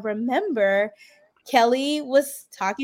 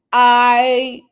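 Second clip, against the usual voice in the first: mock gushing relief; 2 semitones higher, 9 dB louder, much slower than usual. Excited quote to castmate.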